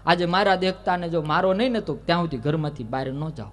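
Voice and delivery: angry complaint. Acted. Prabhavati complaining angrily.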